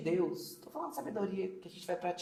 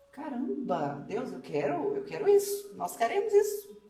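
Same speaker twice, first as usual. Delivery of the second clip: lifted, loud cry of longing; fervent plea; 4 semitones higher, 5 dB louder than usual. Real, not acted. Clamor fervoroso a Deus. (clamor fervoroso e mais alto)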